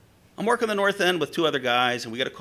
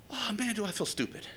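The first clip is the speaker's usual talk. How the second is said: higher, softer aside to himself; sheepish self-reproach; 6 semitones higher, 8 dB quieter than usual. Retold or imitated. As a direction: sink into a small, embarrassed admission. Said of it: "I had this moment of".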